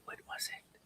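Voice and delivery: whispered to herself, no voice. Shown as a demonstration. Searching the chat, whispers to herself. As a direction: breathe the question out in a whisper. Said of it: "repeats question, second take whispered".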